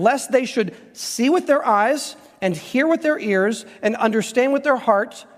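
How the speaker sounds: slow, each "with" leaned on; slow emphatic reading. Shown as a demonstration. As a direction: read it slowly, pressing every "with". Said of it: "look at the middle of verse twenty-seven".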